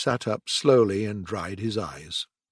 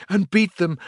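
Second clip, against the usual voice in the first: higher, louder gleeful chant; ecstatic cry; 7 semitones higher, 4 dB louder than usual. A narrator's reading. Toad rallying friends, rising ecstatic cry. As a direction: start the chant with glee. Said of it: "cried the Toad in ecstasy".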